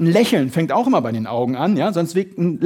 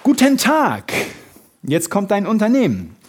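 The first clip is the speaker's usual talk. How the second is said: higher, bright and welcoming opener; friendly phone greeting; 3 semitones higher than usual. Shown as a demonstration. Coach demonstrating how staff answer the phone, friendly. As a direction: greet the caller like you're glad they called. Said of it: "Immer wie folgt".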